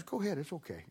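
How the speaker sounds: lightly voiced grandpa whispering; hushed reassurance.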